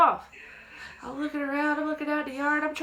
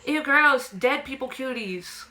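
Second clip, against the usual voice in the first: put-on grossed-out kid; 3 semitones higher, slower than usual. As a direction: squeal it like a squeamish child. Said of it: "my little kid brain was like".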